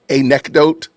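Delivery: anecdote broken up as "a-NECK-dote"; mimicked mispronunciation. Host hearing Candace's version in his head, anecdote as a-NECK-dote. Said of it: "like she said it".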